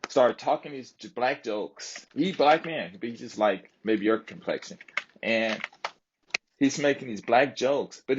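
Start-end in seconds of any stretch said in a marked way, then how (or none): 0.1-2.0 higher, pointing at the joker; heated accusation. Retold or imitated. Vlogger retelling how he called out the joker to the group, higher and heated. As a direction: call him out, building heat. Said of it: "I said".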